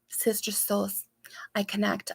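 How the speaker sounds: soft unvoiced sister souls; whispered intimacy. Real, not acted. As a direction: breathe it like a secret bond. Intimate spiritual reply.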